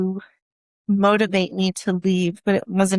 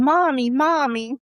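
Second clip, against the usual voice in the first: put-on higher, slow mild plea of a little girl; crying child; 5 semitones higher than usual. Daughter crying to her mother, a hint of tears. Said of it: "she's crying".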